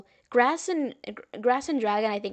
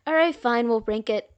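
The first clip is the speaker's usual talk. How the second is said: exasperated; 6 dB louder than usual. Real, not acted. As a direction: cave in, exasperated. Giving in to chat's demands.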